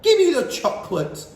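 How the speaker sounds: high, loud shout for chocolate; angry schoolboy shout; shouting boy. A narrator's reading. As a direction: yell it like a boy losing patience. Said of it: "shouted Bruno".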